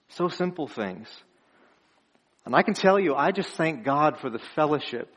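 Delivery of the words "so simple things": soft echo. Shown as a demonstration. Preacher echoes his point to the congregation, softer. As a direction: repeat so simple things much softer. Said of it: "Just so simple things".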